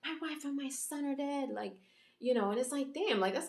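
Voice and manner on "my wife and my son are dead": higher mild mock yell; retelling a grieving king's outburst, higher; mock scream. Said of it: "he screams and he's like".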